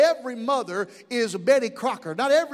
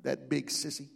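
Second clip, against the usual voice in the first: put-on small shaky boy voice; 10 semitones lower, 10 dB quieter than usual. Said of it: "with a shaky little voice".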